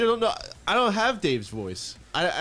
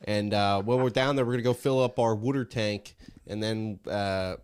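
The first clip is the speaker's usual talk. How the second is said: a Delco accent, local Philly-suburb twang all through; 4 semitones lower than usual. Shown as a demonstration. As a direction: lay on a thick Delco accent for the cheesesteak run. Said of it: "Do it".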